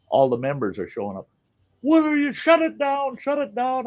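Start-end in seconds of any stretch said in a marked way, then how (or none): 1.8-3.9 much higher, mimicking a fussy commission member; higher mock official ordering shutdown. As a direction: squeak out the orders like a pompous bureaucrat. Mocking housing commission members.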